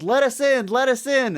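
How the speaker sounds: high-pitched, chanted plea; musical call. Retold or imitated. Everybody else runs up to the door, musical call. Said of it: "like a musical for two seconds".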